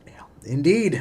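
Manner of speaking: whispered agreement. Real, not acted.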